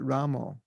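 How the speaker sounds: "Ramo" with a round final o, Bengali style; Bengali pronunciation. Shown as a demonstration. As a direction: say Rama as "Ramo", ending in oh. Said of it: "nobody's doing the pure Sanskrit".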